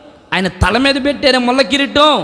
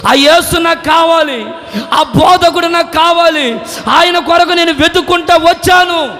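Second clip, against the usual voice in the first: weeping plea; 3 semitones higher than usual. Acted. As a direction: sob it out and climb to a shout. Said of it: "ఆమె చెప్తూ ఏడుస్తుంది".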